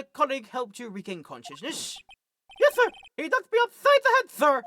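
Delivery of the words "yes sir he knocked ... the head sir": very high, loud, frantic shouting; shouty cop voice. Acted. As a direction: yell it like a panicked rookie. Meekins voice.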